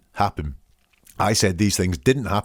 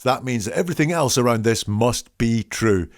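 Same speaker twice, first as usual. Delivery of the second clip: lightly voiced smug liar, pitched up; mock self-praise; 2 semitones higher than usual. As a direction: play the fake-honest man showing off. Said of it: "is like".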